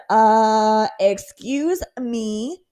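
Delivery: exasperated plea to God; indignant prayer. Retold or imitated. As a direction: demand God explain. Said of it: "my times where I said".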